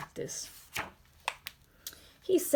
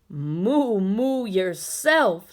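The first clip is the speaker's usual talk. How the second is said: slow, louder cow moo; low deep cow; 5 dB louder, much slower than usual. Acted. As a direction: moo back slow and heavy. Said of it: "said a low, deep voice".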